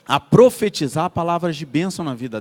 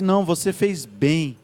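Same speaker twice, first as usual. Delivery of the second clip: gentle praise; 2 semitones lower, slower than usual. Retold or imitated. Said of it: "Ela começou a falar assim".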